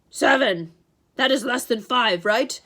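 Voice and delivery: loud monster voice with falling tone; haggling monster. A narrator's reading. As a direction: check the deal as a slow-witted monster. Cyclops haggles with Grover.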